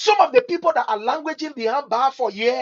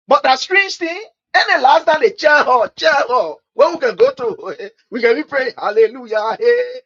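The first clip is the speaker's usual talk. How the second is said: mock excited cheering; 4 semitones higher, 7 dB louder than usual. Mocking church cheering.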